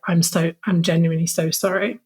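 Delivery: understated, sincere retold apology; mildly contrite, unforced; heartfelt apology. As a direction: relay the apology gently and earnestly. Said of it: "heartfelt message".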